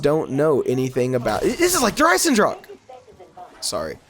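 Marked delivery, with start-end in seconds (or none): 1.5-2.7 sudden high excited cry; excited squeal. Real, not acted. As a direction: blurt it out in delight. Recognises the map, excited.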